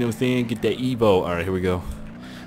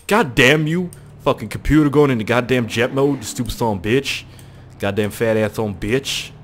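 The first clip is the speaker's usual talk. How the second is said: angry cursing. Pretend. Swearing at computer going into jet mode, exasperated anger. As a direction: curse out the misbehaving machine. Mock ranting at his computer.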